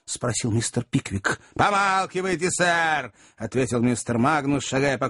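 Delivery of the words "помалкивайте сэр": high, peremptory order; indignant command pitched up; angry retort. A narrator's reading. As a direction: cut the questioner off. Magnus silences Pickwick.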